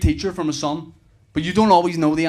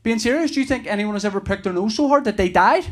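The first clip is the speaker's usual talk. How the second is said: lightly voiced small boy, higher pitch; a hint of an earnest little kid; three-year-old son; 6 semitones higher than usual. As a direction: imitate a child's serious question to Daddy. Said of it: "He said".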